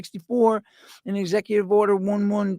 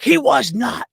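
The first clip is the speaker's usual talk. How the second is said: a retold scream, only a bit louder and higher; mild mock scream; 6 semitones higher, 4 dB louder, slower than usual. Retelling a woman yelling at him over Lincoln, mild mock scream. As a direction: snap it back like she's yelling at him. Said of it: "she screamed in my face".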